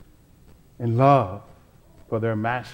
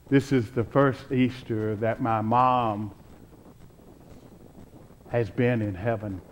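softer, lower, tender grief; subdued remembrance; 3 semitones lower, 6 dB quieter than usual. Real, not acted. Preacher recalling his late mom to the congregation, subdued. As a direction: let it sink quieter and lower, gently mourning. Recalls mother's recent death.

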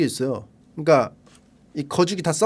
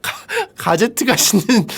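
higher, slow, stuttering through laughter; laughing while talking; 4 semitones higher than usual. Real, not acted. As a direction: try to get the words out while cracking up. Laughing too hard to finish. (웃느라 말을 못 잇는 투)

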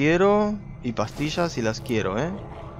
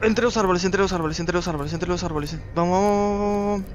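high, urgent repeated muttering while fleeing; frantic urging; 5 semitones higher than usual. Real, not acted. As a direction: repeat it urgently, pitched up, like a getaway mantra. (repetición apremiante y aguda al huir)

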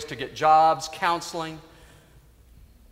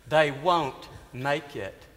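quiet repeat; slower than usual. Acted.

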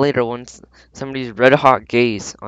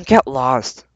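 snarl; 6 dB louder than usual. Acted. Cat snarls at girls.

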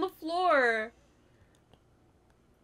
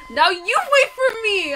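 loud, higher, slower mock elevator taunt; 9 semitones higher, 11 dB louder, slower than usual. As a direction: voice the elevator gloating back. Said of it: "the freaking elevator is like".

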